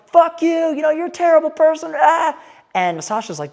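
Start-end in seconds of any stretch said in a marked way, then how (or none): 0.1-2.4 high, loud mock rant; hammed-up furious shouting, pitched way up; imitated angry yelling. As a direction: yell like a man losing it, retold. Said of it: "he's yelling at him".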